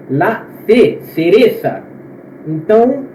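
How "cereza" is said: cereza with c said as th; Spanish lisped c. Shown as a demonstration. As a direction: say cereza with the tongue between the teeth. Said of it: "com a língua no meio dos dentes". (cereza com a língua entre os dentes)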